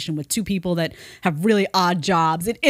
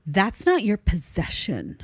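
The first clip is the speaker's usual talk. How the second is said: mocking barista; slower than usual. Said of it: "she's just like".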